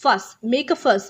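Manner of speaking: "fuss" said as "fus", short vowel, hissed S; pronunciation demo. Shown as a demonstration. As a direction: model "fuss" alone, then in "make a fuss". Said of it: "it is pronunciated like". ("fuss" को "फ़स" जैसा बोलें)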